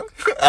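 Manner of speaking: 好きやん？ with a steep high rise at the end; questioning intonation. Shown as a demonstration. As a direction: ask 好きやん？ rising sharply. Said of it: "イントネーション関係ないねん".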